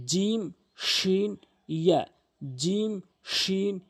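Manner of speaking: জিম, শিন held long and high from the middle of the tongue; slow teacher model of জিম and শিন; Arabic letter demo. Shown as a demonstration. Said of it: "জিহ্বার মাঝখান উপরে তালুর সঙ্গে".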